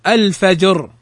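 thick, dark final ر in الفجر; careful model word, الفجر with a heavy ر. Shown as a demonstration. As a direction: end الفجر on a full, emphatic ر. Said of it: "فتفخم".

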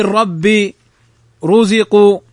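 thick, dark opening ر in ربي and رزق; careful model words with heavy ر in ربي and رزق. Shown as a demonstration. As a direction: start ربي and رزق on a full, emphatic ر. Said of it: "فإنها تفخم".

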